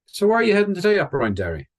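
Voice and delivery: high and quick, nosy driver; high questioning voice. Retold or imitated. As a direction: pitch it up, prying and chatty. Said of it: "So he asked him".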